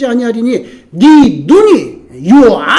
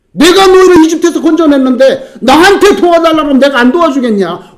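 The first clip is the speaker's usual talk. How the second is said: louder, higher demand that starts on "나한테"; God's loud reproach; 4 semitones higher, 4 dB louder than usual. Acted. God reproaching a people who went to Egypt, loud demand. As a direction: throw the question back at them like a wounded father.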